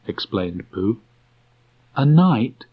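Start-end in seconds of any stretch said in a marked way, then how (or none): 2.0-2.6 put-on a boy's high, bright question; Christopher Robin's voice. A narrator's reading. Christopher Robin asking Pooh, boyish raised voice. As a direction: lift the pitch for the boy.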